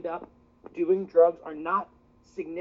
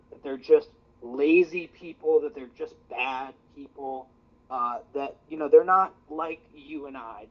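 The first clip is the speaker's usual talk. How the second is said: louder, fired-up debate speech; passionate closing argument; 5 dB louder than usual. Acted. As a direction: drive the point home with outrage.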